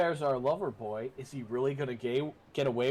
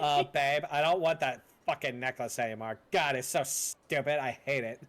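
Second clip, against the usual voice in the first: lightly voiced whiny Valley Girl; a hint of bratty girlfriend on the phone. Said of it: "the only Valley Girl voice I could do".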